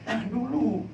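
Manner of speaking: lightly voiced God saying Tahan dulu; a hint of God's voice on Tahan dulu; God speaking. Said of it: "Tuhan ngomong gitu".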